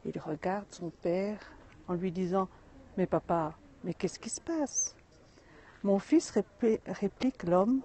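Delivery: reading a fable aloud to viewers; story reading. A narrator's reading. Storyteller reading the daily tale to viewers, steady. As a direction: tell the little wisdom tale steadily.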